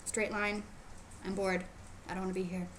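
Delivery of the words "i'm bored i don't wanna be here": low, soft sulky mumble; mock sulky teen; bored pout. Shown as a demonstration. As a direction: sound like a kid who wants to leave. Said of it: "No pouting".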